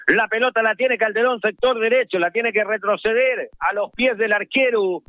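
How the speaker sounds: football radio commentary, running with the ball; South American radio football commentator; live play-by-play. Real, not acted. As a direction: call the match live on radio.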